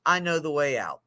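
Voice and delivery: "I know the way out" said soft and low, calm; calm reassurance. Retold or imitated. Peer specialist calmly reassures the man in the hole. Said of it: "And the peer support specialist says".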